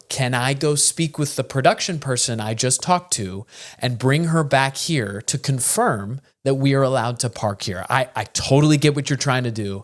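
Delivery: measured, reasonable imitation of pleading patience; placating tone. Driver placating the guard over parking, polite reasonable tone. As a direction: calmly talk down a security guard. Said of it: "I'm giving this tone. I'm doing this tone".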